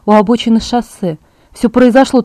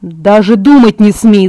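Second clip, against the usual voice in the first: slow, louder forbidding shout; 6 dB louder, slower than usual. Acted. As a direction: forbid it outright. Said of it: "закричал Эдвард".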